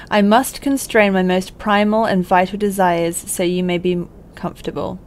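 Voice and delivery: put-on a light, slightly theatrical letter reading, no accent. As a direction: read it out like a friend's heartfelt letter.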